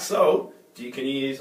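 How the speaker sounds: put-on casual American accent. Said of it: "I'm doing the American accent thing".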